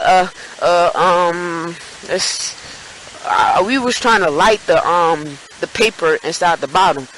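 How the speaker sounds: mock hesitant stammer with ums; scared stuttering. Friend explains the fire to cops, stammering nervously. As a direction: imitate a nervous, halting explanation. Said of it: "he's stuttering because he's scared".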